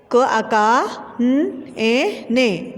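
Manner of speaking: slow, drawn letter-by-letter spelling. Shown as a demonstration. Teacher spelling a word for pupils, slow and drawn out. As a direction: sound out each letter slowly with long gaps. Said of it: "दुकानें".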